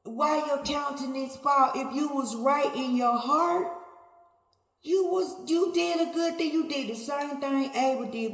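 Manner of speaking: a hint of God scolding Cain. Preacher speaking as God to Cain, mild rebuke. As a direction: scold him gently but firmly, as God.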